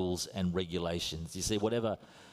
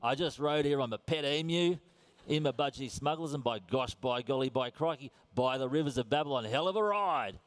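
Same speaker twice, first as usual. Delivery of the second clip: mock Australian ocker; 3 semitones higher than usual. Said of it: "It's not like I said".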